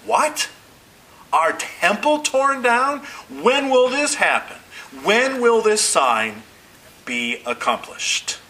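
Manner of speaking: high-pitched, acted disbelief; astonished disciples. Disciples hearing the temple will fall, astonished. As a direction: voice leaps up in stunned questions, drawn out. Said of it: "The disciples are astonished".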